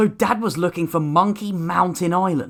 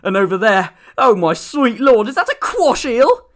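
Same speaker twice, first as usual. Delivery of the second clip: much higher, eager and breathless with wonder; excited; 7 semitones higher, 3 dB louder than usual. A narrator's reading. Milton excitedly points out sea creatures to Malaga, high and eager. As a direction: point them out like a thrilled kid.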